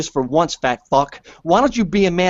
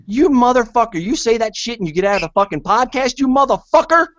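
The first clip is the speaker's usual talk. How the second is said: screaming insults; 6 semitones higher than usual. Real, not acted. Screaming at the caller who trashed him, enraged. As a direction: lose it completely and scream.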